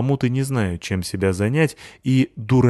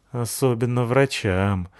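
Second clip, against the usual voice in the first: sadly; 2 semitones higher, slower than usual. Acted. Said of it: "сказал грустно мальчик".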